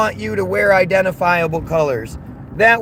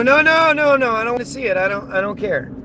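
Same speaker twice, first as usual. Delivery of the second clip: mocking denial; 4 semitones higher than usual. Streamer mimicking people who defend a side, hammed-up panicky refusal. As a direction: send up a flustered person refusing to look. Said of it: "and you go".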